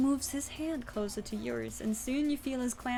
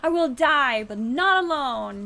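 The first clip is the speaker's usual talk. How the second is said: loud, higher, defiant cry; defiant shout; 3 semitones higher, 12 dB louder than usual. A narrator's reading. Defiant cry before flying.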